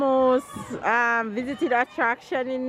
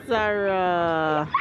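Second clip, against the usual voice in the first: slow, drawn-out shouted call; 4 semitones lower than usual. Real, not acted. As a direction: stretch it out to reach her. Calling out to daughter.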